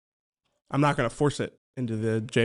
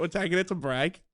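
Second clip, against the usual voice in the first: softer retry at a Birmingham accent; 3 semitones higher, 6 dB quieter than usual. Shown as a demonstration. Co-host practises the break line, soft Birmingham accent. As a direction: quietly feel out the Birmingham sound. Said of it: "That's Birmingham".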